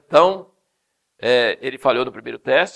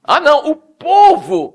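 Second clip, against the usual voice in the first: high, loud slow dodge; mock sheepish excuse; 13 semitones higher, 13 dB louder, slower than usual. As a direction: shrug the blame off. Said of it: "Samuel fala assim". (desculpa esfarrapada, voz aguda)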